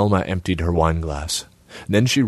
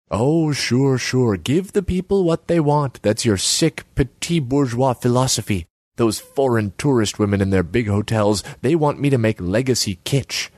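higher pitched, nagging artsy woman; Selma's voice; 6 semitones higher than usual. Acted. Selma needles Borislav about his empty kiosk, high voice.

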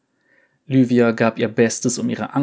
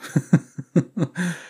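soft laugh; 7 semitones higher than usual. Acted. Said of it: "lachte leise".

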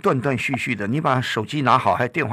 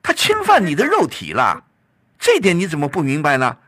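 stern scolding; 4 semitones higher, 3 dB louder than usual. Real, not acted. Host scolding caller's passivity.

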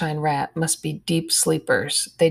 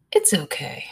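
whispered. Acted. Friend whispering reassurance in the dark.

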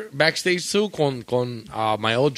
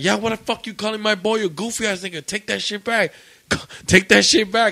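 retold indignant challenge; 7 semitones higher than usual. Friend defending bandmate in retold quarrel.

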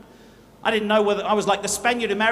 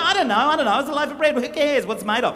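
flustered dreamer; 3 semitones higher than usual. Pretend. The dreamer snaps back at the questioner, flustered. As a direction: brush the question off. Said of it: "He said".

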